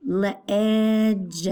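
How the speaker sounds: le-edge said slowly with a short E "eh"; short E demo. Shown as a demonstration. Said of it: "The E does not have a long sound".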